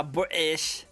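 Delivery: "British" drawn out slowly in mock British; badly faked British accent on "British"; attempted British accent. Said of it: "to be a British accent".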